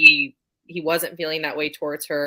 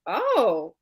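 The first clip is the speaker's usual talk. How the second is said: higher and slow, teasingly impressed; mock pleasant surprise; 10 semitones higher, slower than usual. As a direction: pretend to be caught off guard, amused. Retold reaction to sex scenes.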